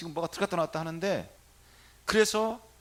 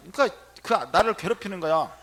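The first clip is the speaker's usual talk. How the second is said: usual speaking voice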